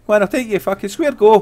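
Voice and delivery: angry. Acted. Challenging someone to fight.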